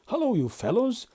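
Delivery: high, bright and loud greeting; cheerful. Acted. Toad cheerfully greets his friends in motoring gear. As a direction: hail them with jolly glee. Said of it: "he began cheerfully".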